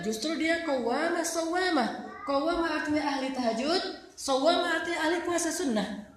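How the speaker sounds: normal talking voice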